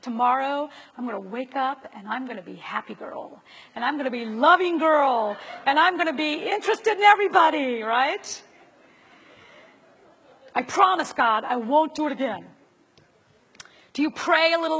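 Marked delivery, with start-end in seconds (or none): 0.0-7.8 mock vow. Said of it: "Do you vow to do better?". 10.5-12.5 mock promise. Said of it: "Do you vow to do better?".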